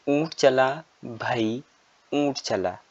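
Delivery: put-on slow sing-song recital for children; poem recitation. Shown as a demonstration. Teacher reciting a camel poem to young pupils, sing-song. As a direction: recite the rhyme slowly to the class.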